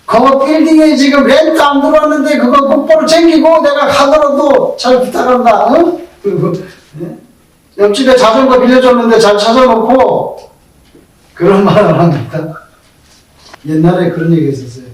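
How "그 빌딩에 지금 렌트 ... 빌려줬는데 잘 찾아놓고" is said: high, pressing deathbed nagging; fussing last instructions. Acted. Dying person leaving property instructions to family, fussing and high-pitched. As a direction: reel off worldly errands, pitched up and insistent.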